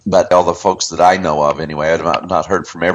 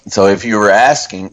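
ordinary talk, nothing marked

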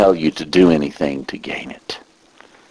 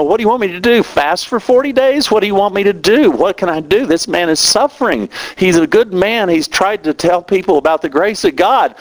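much higher, voice straining, pleading in anger at God; angry crying prayer; 12 semitones higher than usual. Retold or imitated. Preacher retelling his prayer for a dying friend, crying in anger. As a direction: cry out to God, anguished and furious. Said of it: "I was crying so hard in anger".

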